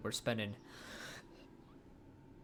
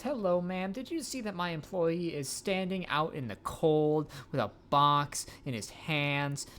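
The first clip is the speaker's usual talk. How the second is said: high, bright sales pitch voice; salesperson voice; 5 semitones higher, 4 dB louder than usual. Acted. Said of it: "time for cold calls".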